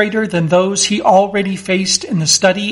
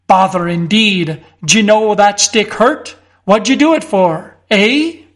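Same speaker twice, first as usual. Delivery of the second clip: a hint of a gruff country constable, raised; suspicious constable. Constable Winch confronting Mister Fotheringay, mildly suspicious.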